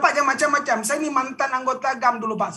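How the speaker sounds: imitating his past angry self; retold angry threat. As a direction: reenact threatening the mentor in anger. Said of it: "saya dengan emosi gitu".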